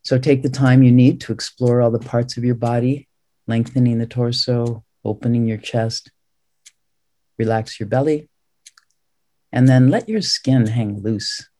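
unhurried meditation guidance with long pauses; calm, measured meditation teacher; guided meditation. Real, not acted. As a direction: ease them into the posture, phrase by phrase. Guides body relaxation in meditation.

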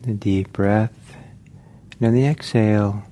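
unhurried meditation guidance with long pauses; measured meditation-teacher delivery, phrase by phrase; guided meditation. Real, not acted. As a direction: guide listeners gently, leaving long silences between phrases.

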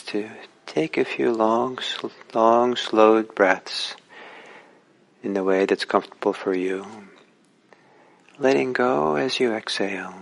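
unhurried instructions with long pauses; calm, spacious meditation-teacher delivery; guided meditation. Real, not acted. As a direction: guide listeners gently, phrase by phrase, leaving space between.

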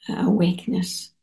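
usual speaking voice

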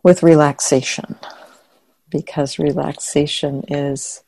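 soft, unhurried meditation guidance; quiet, spacious delivery, phrase by phrase; guided meditation. Acted. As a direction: ease listeners into relaxation with long pauses. Begins leading guided meditation.

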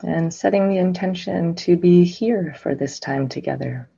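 unhurried meditation guidance with long silences; guided meditation. Real, not acted. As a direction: guide listeners gently into stillness, phrase by phrase.

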